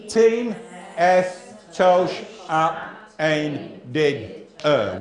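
very slow, each syllable drawn apart; slow sounding out. Shown as a demonstration. Teacher slowly sounding out number seven for the class. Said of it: "what does it say?".

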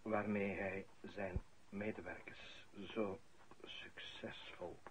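a slow hushed whisper on "succesvol". Acted. Priest at the funeral whispering his praise. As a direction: breathe the words out, barely voiced.

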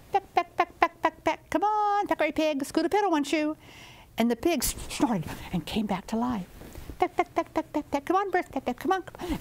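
high, sing-song pecking calls; chicken coaxing. Acted. Chicken calling the dead animals back to life, high and coaxing. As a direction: coax the dead animals up like a busy hen.

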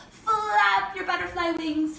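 slow, playful butterfly instruction; drawn-out playful cue. Pretend. Teacher has kids flap butterfly wings, drawn-out and playful. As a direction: stretch out "Flap", slow and lilting.

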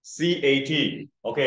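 C A T spelt out slowly letter by letter; slow spelling. Shown as a demonstration. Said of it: "when you pronounce the word C A T".

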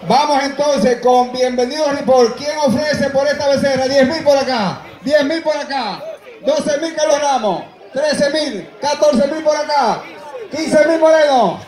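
rapid bid calling, rising; auctioneer. Acted. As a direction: call the bids like an auctioneer.

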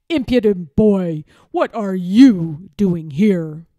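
put-on a villainous lord scolding a boy. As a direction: lord confronting the page boy, sneering and loud.

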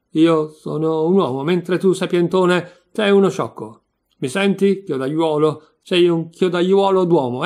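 loud, heated name-calling; indignant, forceful quarrelling; angry insults. Acted. Insults hurled in acted quarrel.

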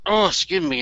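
burping mid-sentence. Real, not acted. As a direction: talk through a small burp. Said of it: "and I'm burping".

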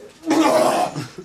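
mock throw-up noise, high; imitated retching. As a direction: act out losing your stomach. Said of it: "I just couldn't hold it. I was like".

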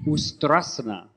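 put-on a light Brazilian accent on Ustrasana. Host leading yoga, Ustrasana in a Brazilian accent. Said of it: "said that with a Brazilian accent".

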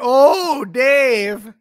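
put-on swooning girl. Co-host voicing the girl swooning over Dave, hammed-up. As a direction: coo it like a smitten girl. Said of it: "She said".

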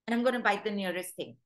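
a dog's angry warning, said loud. Retold or imitated. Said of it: "And they say".

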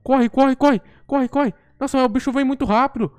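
panicked yelling while fleeing; being chased. Real, not acted. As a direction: scream and run, terrified. Monster chasing him in game.

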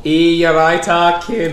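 attempted Mancunian greeting; Manchester accent. Shown as a demonstration. Guest proving himself to the host, attempted Manchester accent. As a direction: have a confident go at Manchester. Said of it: "I can do a Manchester accent".

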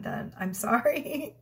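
slow apology tipping into a giggle; giggled apology. Retold or imitated. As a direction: retell it with a small sheepish giggle at the end. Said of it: "I kinda giggled like that".

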